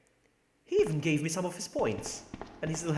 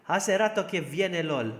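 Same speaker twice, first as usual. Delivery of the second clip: louder Spanish-accented reading; 4 semitones higher, 5 dB louder than usual. Shown as a demonstration. Streamer trying Spanish for chat, Spanish accent. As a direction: read it out in a lively Spanish accent.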